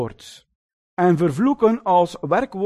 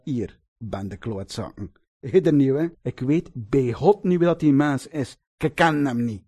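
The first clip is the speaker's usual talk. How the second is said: lightly voiced rough West-Flemish fisherman swearing; a hint of a cornered fisherman cursing; 5 semitones lower than usual. Preacher voicing Peter cursing the crowd around him, lightly rough. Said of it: "hoe zou die Galileese visser ongeveer in het West-Vlaams geklonken hebben".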